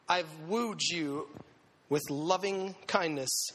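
tender. Retold or imitated. God's voice tender.

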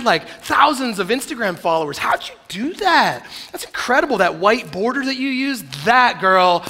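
Jesus mockingly gushing over her stuff, high and loud; gushing excitement. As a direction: fawn over her like a starstruck fan. Jesus gushing over the rich girl.

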